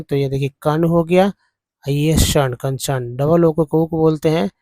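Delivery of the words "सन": सन drawn out very slowly as the end syllable; slow syllable demo. Shown as a demonstration. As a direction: stretch सन long and clear for students. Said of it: "ईआरएन को अन बोलते हैं".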